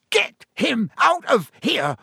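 high, slow, emphatic yell; bellow. A narrator's reading. Ron as the cat attacks his rat, bellowing. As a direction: bellow it word by word. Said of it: "Ron bellowed".

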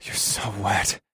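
hushed, whispery rumble; low rumble. A narrator's reading. Husband murmuring intimately to his wife, hushed rumble. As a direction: rumble it under your breath. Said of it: "I rumbled as I lowered".

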